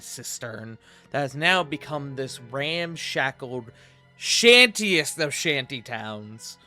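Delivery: slow descriptive narration; game master narration. Acted. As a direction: set the scene slowly. Game master's scene setting.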